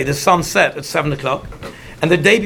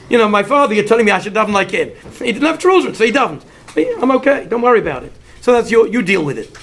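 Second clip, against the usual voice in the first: animated, mildly exasperated brush-off; dismissive retort; 2 semitones higher, faster than usual. Retold or imitated. Husband answers his wife about davening like his father, lightly dismissive. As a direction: act out a husband shrugging off the complaint.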